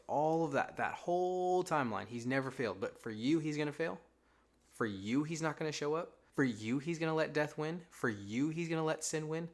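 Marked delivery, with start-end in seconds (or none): 2.8-9.5 incredulous rhetorical questions. Acted. Rhetorical disbelieving questions to listener.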